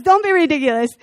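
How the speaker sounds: lightly voiced Gru brushing off David. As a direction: scoff it out like Gru. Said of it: "how I picture his voice, kinda like Crew".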